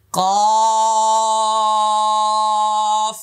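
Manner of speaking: কফ high and firm from the tongue root; letter demo. Shown as a demonstration. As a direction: say কফ clearly once. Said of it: "আমি আবার বলছি".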